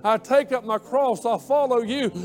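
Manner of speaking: impassioned prayer. Acted. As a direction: pour yourself out to God at the altar.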